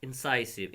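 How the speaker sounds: "Incisive" with a long "sigh" middle; "Incisive", middle syllable rhyming with "eye"; correct pronunciation. Shown as a demonstration. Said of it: "incisive नहीं पढ़ना".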